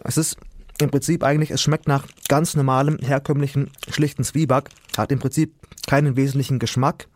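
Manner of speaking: talking with a mouthful of rusk; mouth full. Real, not acted. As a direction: chew and speak at once. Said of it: "mit vollem Mund zu sprechen".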